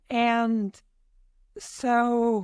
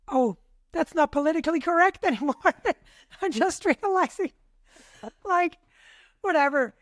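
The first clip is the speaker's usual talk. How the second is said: higher, laughing through the words; amused realization; 4 semitones higher than usual. Real, not acted. Speaker catching herself on an outdated saying, amused realization. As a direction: laugh at your own slip.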